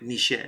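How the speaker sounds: "Michel" with a soft French sh; French pronunciation. Shown as a demonstration. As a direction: give "Michel" a French oomph on the last syllable. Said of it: "the way they say it".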